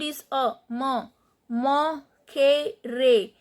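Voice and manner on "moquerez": "Moquerez" drawn out as "mo-kay-ray". Shown as a demonstration. Teacher showing the E rule, "Moquerez" slowly as "mo-kay-ray". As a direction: slowly sound out "Moquerez", each E as "ay". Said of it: "Here E is pronounced as A".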